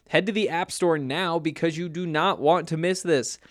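upbeat sponsor read. Acted. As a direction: sell it like a radio spot. Host-read sportsbook ad.

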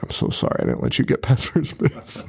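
breathy mock-tender apology; tender, in love. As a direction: imitate a lovestruck, hushed apology. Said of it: "tender in love".

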